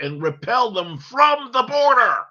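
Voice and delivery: angry shout. Real, not acted. Ranting demand.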